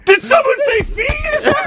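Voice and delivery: high, slow hammy villain voice; mock greedy banker. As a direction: squeal it like a greedy cartoon banker.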